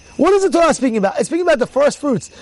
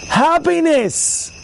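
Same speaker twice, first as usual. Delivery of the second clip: drawn-out happiness; 6 semitones higher, much slower than usual. Real, not acted. Rabbi urging joy.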